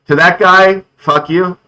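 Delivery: sudden angry outburst. Real, not acted. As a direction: spit it at the arsonist. Arsonist near son's house.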